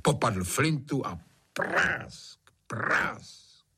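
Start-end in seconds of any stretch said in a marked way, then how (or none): 1.5-3.7 imitated gunshot. A narrator's reading.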